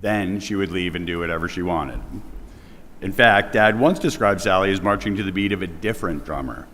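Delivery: projecting loudly to the whole room. Real, not acted. Son at his mother's memorial, projecting loudly to the mourners. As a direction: speak up big so the back rows hear. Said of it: "I have a loud voice, I can yell".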